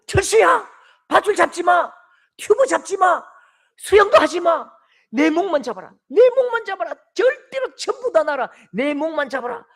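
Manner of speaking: high, loud, urgent yelling; father in the water yelling at his son to hold on; desperate shout. Retold or imitated. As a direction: scream it to your drowning son.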